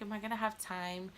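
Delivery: a small scared whisper, barely voiced; anxious whisper. Mother in labor whispering to nurse, scared whisper. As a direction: ask it under your breath, frightened.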